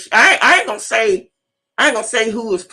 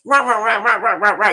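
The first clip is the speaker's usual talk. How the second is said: mock chihuahua yapping; faster than usual. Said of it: "You know how a Chihuahua".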